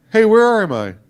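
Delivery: mock-panicked old man suddenly lost; lost Biden. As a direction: Biden impression, startled and lost. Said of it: "my impression of Joe Biden".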